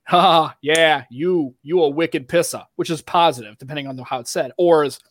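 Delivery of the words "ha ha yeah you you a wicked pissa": friendly Boston mock. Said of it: "if you got somebody you like".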